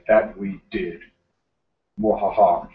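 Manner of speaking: low gloating villain voice with a cackle; hammed-up evil laugh, playfully smug; mad scientist. Gloating over revenge win.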